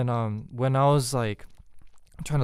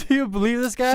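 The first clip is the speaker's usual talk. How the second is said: higher, put-on exasperated voice; a lightly voiced scandalized friend; mock outrage; 10 semitones higher than usual. Girlfriend appealing to a friend about him, high put-on disbelief. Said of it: "repeats appeal, laughing".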